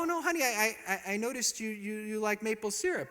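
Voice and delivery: sweetly proud, totally clueless; innocent husband. Retold or imitated. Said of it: "I go".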